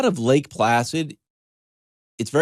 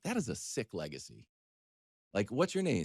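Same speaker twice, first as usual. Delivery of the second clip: amused; 11 dB quieter than usual. Retold or imitated. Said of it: "I'm like".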